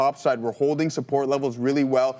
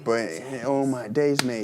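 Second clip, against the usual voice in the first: put-on English accent; 3 semitones lower than usual. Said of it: "English accent".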